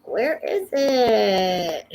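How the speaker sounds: slow, drawn-out exasperated cry; frustrated wail. Real, not acted. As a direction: whine it out in frustration. Frustrated, picture won't load.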